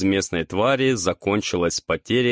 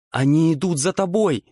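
shouted warning; 8 semitones higher than usual. A narrator's reading. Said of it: "крикнула Тук".

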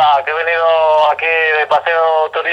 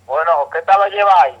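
por teléfono. Real, not acted. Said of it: "Tenemos llamada en directo".

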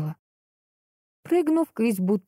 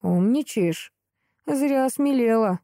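stern; 4 semitones higher than usual. A narrator's reading. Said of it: "строго произнёс противный голос".

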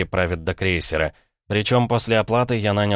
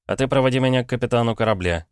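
quick order; 4 semitones higher, faster than usual. Acted. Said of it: "быстро велел я".

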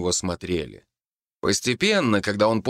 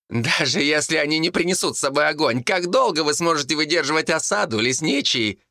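higher taunting call; monk calling up to the forester; 8 semitones higher than usual. A narrator's reading. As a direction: shout the taunt across. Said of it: "крикнул монах".

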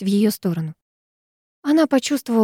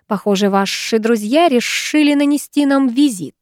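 hissed into her ear; a menacing hiss, close up; 4 semitones higher than usual. Acted. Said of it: "прошипел он ей в ухо".

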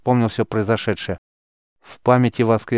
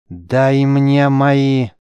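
slow, loud, higher yell; 5 semitones higher, 6 dB louder, much slower than usual. A narrator's reading. The mage loses his temper and yells for his own clothes. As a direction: roar the demand, losing control. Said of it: "заорал Рис".

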